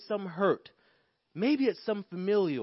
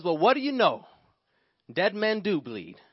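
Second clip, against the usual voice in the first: louder, amazed realization; shocked; 4 dB louder than usual. Acted. Man startled by his bleeding finger, shocked. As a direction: sound floored by your own discovery.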